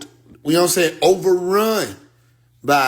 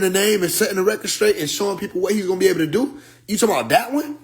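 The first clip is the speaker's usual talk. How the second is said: builds higher with each "the interview", from indignant to near disbelief; rising exasperation; 5 semitones higher than usual. Retold or imitated. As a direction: pile it on, climbing in pitch as the outrage grows. Retold heated pushback on the phone.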